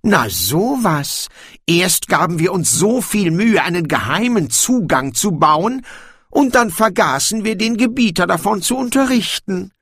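high, theatrical mock dismay of a dwarf king; feigned astonishment. A narrator's reading. Dwarf king excuses a secret entrance, feigning astonishment. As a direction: play innocently amazed, pitched high. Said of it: "Brokando gab sich erstaunt".

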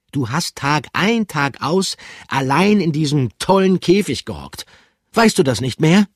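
hohe, strenge Figurenstimme; hoch und streng vorhalten; strenge Figur. Acted. Pikandu looks sternly. (hohe, strenge Stimme)

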